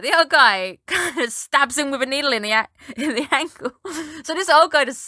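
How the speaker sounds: words broken by giggles; can't keep a straight face; laughing while telling. Real, not acted. Laughs while describing needle stab.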